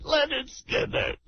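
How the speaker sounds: a hammed-up blubbering boss, lightly voiced; radio caller doing a weepy team owner, mock sobbing; mock weepy Steinbrenner. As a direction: play the tearful team owner, half laughing. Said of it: "We got Corky Steinbrenner".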